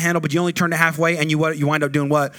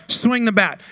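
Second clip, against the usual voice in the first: "Swing the bat" higher and louder, from the chest; 5 semitones higher, slower than usual. Retold or imitated. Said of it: "Say it with your chest".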